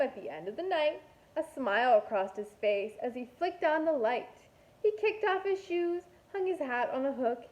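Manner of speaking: lilting, rhythmic storybook read; reading to children. A narrator's reading. Teacher reading a rhyming picture book to her class, lilting. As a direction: read the rhyme to a class, bouncing along.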